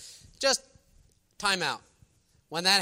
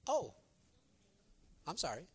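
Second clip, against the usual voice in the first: sheepish apology; 7 dB quieter than usual. Acted. Embarrassed apology acted out.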